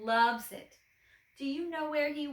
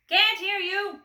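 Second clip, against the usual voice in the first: loud, high roar; 8 semitones higher, 7 dB louder, slower than usual. A narrator's reading. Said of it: "roared the milkman".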